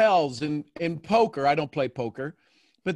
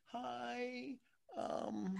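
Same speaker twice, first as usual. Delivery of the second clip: very soft, higher hesitant "hi"; imitated timid arrival; 6 semitones higher, 19 dB quieter than usual. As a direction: imitate someone coming in quietly and unsure. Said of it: "Her coming in".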